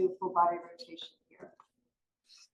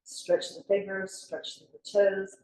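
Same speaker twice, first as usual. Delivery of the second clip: slow yoga cue; much slower than usual. Shown as a demonstration.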